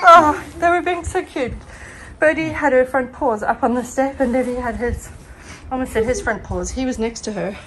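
breathless talking; out of breath. Real, not acted. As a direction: talk while catching breath. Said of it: "I am out of breath".

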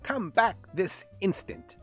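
high, loud scolding shout; shouted order. A narrator's reading. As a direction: shout an angry uncle's command. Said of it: "shouted Uncle Bigby".

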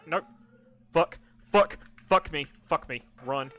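loud panicked swearing while fleeing; being chased. Real, not acted. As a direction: yell in frantic flight.

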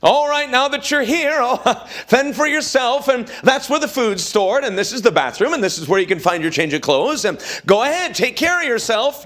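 a breezy careless nurse; careless caretaker. Pretend.

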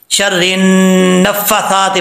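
quick careless reading with नफ़्फ़ासाती clipped short; wrong short reading. Shown as a demonstration. Teacher shows the common mistake, read quickly. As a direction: rush नफ़्फ़ासाती without the long vowel. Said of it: "गलती क्या करते हैं लोग".

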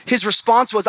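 ordinary talk

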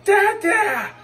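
high, loud joyful call of dada; little boy running in shouting dada; excited child's cry. Retold or imitated. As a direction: shout it like a thrilled toddler. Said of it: "he came saying".

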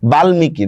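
বাল্মীকি as "bal-miki"; sounded m. Shown as a demonstration. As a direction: keep the m audible after l in বাল্মীকি. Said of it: "মফলার উচ্চারণ যেহেতু হচ্ছে".

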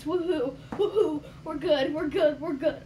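bursting with giddy energy; hyper. Real, not acted. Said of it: "I'm just kinda hyper".

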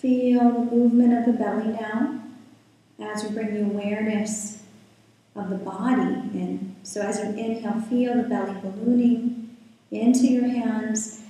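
calm, unhurried guiding voice with long pauses; guided meditation. Real, not acted. Yoga teacher settling the class into breath and body, guided meditation. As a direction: ease listeners into stillness, leaving space between phrases.

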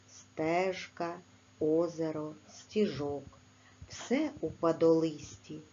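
gentle poem recital; poem reading. Acted. Reads a poem.

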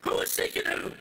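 loud, high, punching the first who; shouted question. Acted. Preacher to congregation, shouting the question back. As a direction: throw the question at them, hit who.

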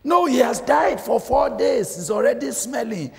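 high, loud objection; mild protest. Acted. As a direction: push back on him, voice lifted. Martha objects, voice raised high.

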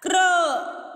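"Crow" said as one drawn-out blended syllable, falling at the end; blend pronunciation demo. Shown as a demonstration. Teacher showing students how C R sounds, blend pronunciation demo. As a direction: model "Crow" with C and R run together, then a long vowel. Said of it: "What is the pronunciation of C R".

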